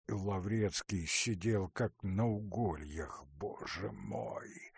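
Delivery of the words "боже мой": hushed, slow, muttered to himself; Lavretsky's silent despair; inner thought. A narrator's reading. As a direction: breathe it out as a private groan. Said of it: "думал он".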